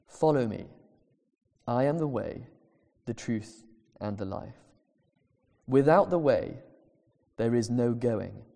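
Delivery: measured, unhurried recitation of a quote; slow deliberate reading. Shown as a demonstration. Reading a theologian's words slowly to the congregation. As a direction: read the quote slowly, weighing each phrase. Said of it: "I'm gonna read it slowly".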